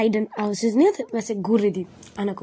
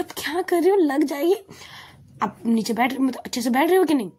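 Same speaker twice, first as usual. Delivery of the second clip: retold nagging, pitched up at first; mock scolding; 5 semitones higher than usual. Hana repeatedly warns her companion to sit properly, mock scolding. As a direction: scold lightly, as if for the umpteenth time. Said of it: "हना उसे बार बार डांट रही थी कि".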